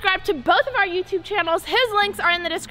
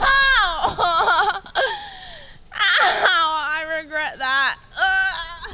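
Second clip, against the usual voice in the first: crying out in pain; hurt, whimpering ow; much slower than usual. Real, not acted. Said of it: "she just hurt herself".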